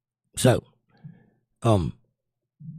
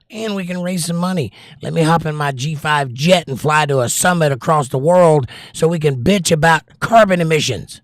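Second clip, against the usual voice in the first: mock elite; 4 semitones higher, 4 dB louder than usual. Mocking jet-setting climate elites.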